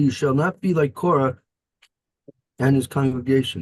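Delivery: ordinary talk, nothing marked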